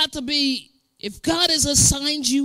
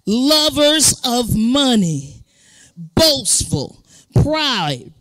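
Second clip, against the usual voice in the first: scripture reading; 3 dB louder, slower than usual. Real, not acted.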